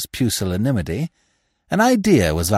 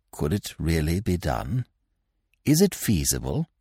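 hushed, much softer conspiratorial whisper; almost inaudible whisper; 6 semitones lower, 7 dB quieter than usual. A narrator's reading. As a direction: barely breathe the words. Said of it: "in an almost inaudible whisper".

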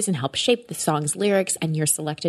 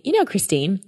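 put-on Australian accent; 4 semitones higher than usual. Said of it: "in his Australian accent".

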